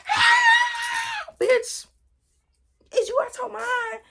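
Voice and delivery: high loud shriek of disbelief; outraged yell. Retold or imitated. She yells at kidnapping boyfriend, high outraged shout. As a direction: yell it like you can't believe him.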